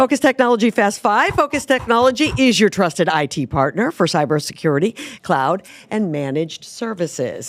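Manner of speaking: smooth sponsor read. Acted. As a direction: read it like a radio ad. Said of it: "A real professional with the ad reads".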